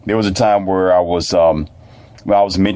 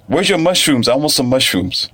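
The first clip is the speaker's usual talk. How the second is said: put-on higher-pitched child asking for a snack; imitated eager child; 5 semitones higher than usual. Child asking mentor for mushrooms, imitated eagerness. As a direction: play a kid expecting a treat.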